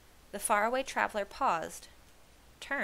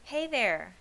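louder hail; calling out; 3 semitones higher, 6 dB louder than usual. A narrator's reading. Shepherd hailing three children, calling out. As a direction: hail someone coming near. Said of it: "called the shepherd".

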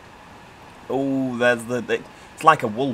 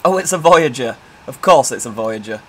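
surprised; 9 dB louder than usual. Real, not acted. Spotting the Voyager train.

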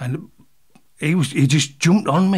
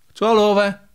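high, declaring referee voice; referee's final call; 7 semitones higher, 3 dB louder than usual. Retold or imitated. Referee waving the fight off, final. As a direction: announce the stoppage with pitch lifted.

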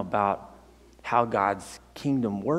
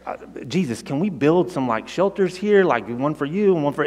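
retelling the disciples' eager rush, higher and louder; like thrilled followers who can't believe their luck; excited disciples; 3 semitones higher, 4 dB louder than usual. Retold or imitated. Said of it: "they get so excited about this that they're like".

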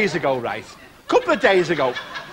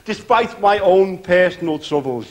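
cheesy warm-up man patter. Acted.

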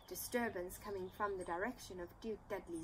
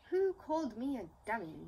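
demanded; 2 semitones higher, 6 dB louder than usual. Acted. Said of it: "he demanded".

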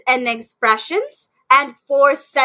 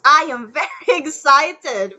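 laughing excitedly. Shown as a demonstration. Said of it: "She's excited now".

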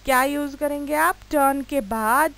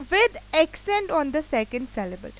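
slow dictation; 3 semitones higher, much slower than usual. Shown as a demonstration. Dictates rule wording.

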